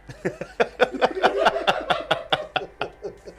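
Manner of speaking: breathless silent laughter; real helpless wheeze of laughter; long wheezing laugh. Real, not acted. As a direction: laugh until the voice gives out.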